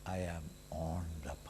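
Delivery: hushed whisper. Shown as a demonstration. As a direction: breathe it out unvoiced. Whispered affirmation of faith.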